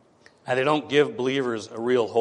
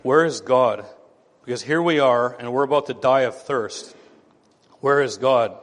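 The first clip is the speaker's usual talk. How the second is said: complaining crowd; 4 dB louder than usual. Retold or imitated. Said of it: "They're asking the question".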